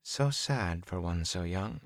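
soft. A narrator's reading. Leah pities young Perrin, soft and slow. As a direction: let the words fall gently. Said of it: "she said softly".

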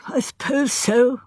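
muffled, face in hands. Acted. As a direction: speak muffled into your hands. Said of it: "he said in a muffled voice".

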